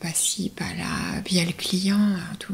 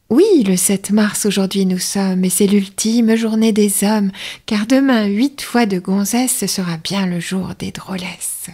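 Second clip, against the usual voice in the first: quicker, brisker take of the verse; slightly faster announcer read; a bit faster; 4 dB louder than usual. Shown as a demonstration. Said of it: "ça va un peu plus vite".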